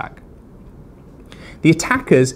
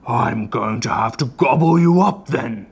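menacing troll; slower than usual. A narrator's reading. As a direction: savour the threat like a hungry troll. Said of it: "said the troll".

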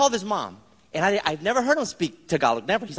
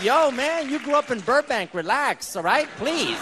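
higher-pitched mock protest; exasperated retort; 4 semitones higher, slower than usual. To mother-in-law carrying on about Mexico, exasperated retort. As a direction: push back in playful exasperation.

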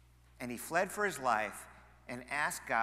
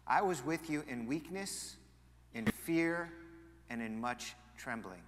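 scripture reading; 3 semitones lower than usual. Acted. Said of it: "Here's what Paul writes".

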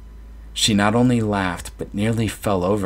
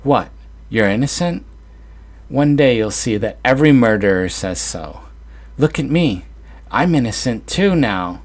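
mocking; 5 semitones higher, 4 dB louder than usual. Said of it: "She threw her head back and chuckled".

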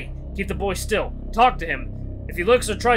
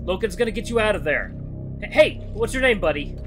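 high, louder, anxious coaxing; urgent pleading; 7 semitones higher, 5 dB louder than usual. Acted. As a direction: keep a frightened kid from moving. Urgently steadies endangered child.

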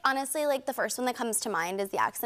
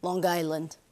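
deadpan Long Island reveal; thick Long Island accent; 3 semitones lower, slower than usual. Shown as a demonstration. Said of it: "my favorite accent of all".

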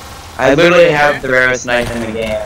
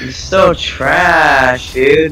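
slow mocking shout; 3 semitones higher, much slower than usual. Real, not acted. Mocking a teammate.

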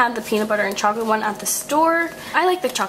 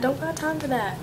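sassy line, whispered softer; whispered catchphrase; 3 semitones higher, 6 dB quieter than usual. Real, not acted. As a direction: repeat it under your breath. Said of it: "I'm whispering".

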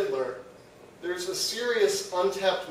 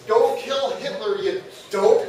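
mock search result; 2 semitones higher, 5 dB louder, slower than usual. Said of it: "the top result was".

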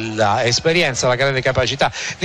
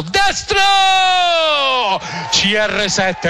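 high shout, stretched CR7; goal call shout; 11 semitones higher, much slower than usual. Real, not acted. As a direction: scream the shot and name. Goal call for Ronaldo's strike.

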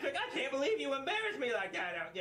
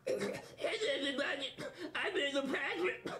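squeaky ventriloquist dummy. Acted. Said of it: "let little Patrick do all the talking".

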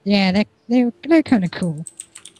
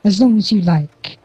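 regal queen. Acted. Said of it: "the Queen's basically looking at all of you and going".

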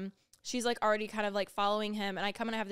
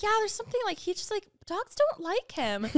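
higher, lightly mocking casual reply; friends' answer; 11 semitones higher, 3 dB louder than usual. Heath and Mariah shrugging it off, a higher casual voice. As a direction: toss it off as no big deal.

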